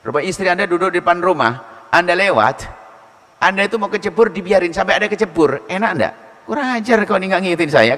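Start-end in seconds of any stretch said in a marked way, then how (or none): 6.4-7.9 angry husband. Acted. Husband scolds wife angrily.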